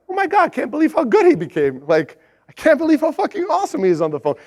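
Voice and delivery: amazed. Retold or imitated. Boss amazed at the intern's turnaround, awed. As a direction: marvel at how good he got. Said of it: "I was like".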